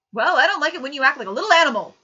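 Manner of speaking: father shouting at his crying son, fast and very loud. A narrator's reading. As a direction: explode at the child. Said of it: "he shouted".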